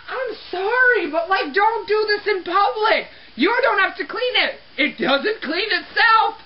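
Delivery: high-pitched indignant scolding; worked up. Acted. Cleaner telling culprit not to do this in public, worked up. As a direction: plead and scold, stretching the key words. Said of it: "I get a little worked up".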